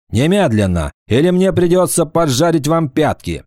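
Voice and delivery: high, menacing threat; threatening villain. Acted. Urthona threatens them.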